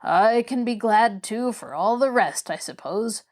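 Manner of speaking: sour, resentful listing; bitter. Acted. Patient sarcastically listing what to be glad of, bitter. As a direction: grudgingly count blessings with mild bitterness. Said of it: "all the old bitterness coming back to his voice".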